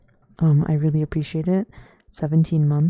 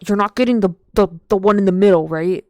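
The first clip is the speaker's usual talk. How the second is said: mom's alarmed question; 2 semitones higher, 11 dB louder, faster than usual. Retold or imitated. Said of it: "She's like".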